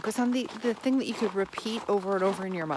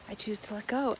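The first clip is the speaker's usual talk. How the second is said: gentle reminder; 4 dB quieter than usual. Shown as a demonstration. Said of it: "It's a gentle reminder".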